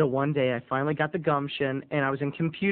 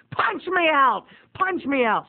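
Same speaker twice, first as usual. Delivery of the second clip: scared; 8 semitones higher, slower than usual. Retold or imitated. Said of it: "I was scared".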